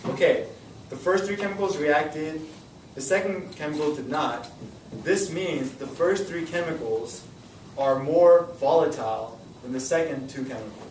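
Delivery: model answer read slowly. Shown as a demonstration. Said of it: "by saying".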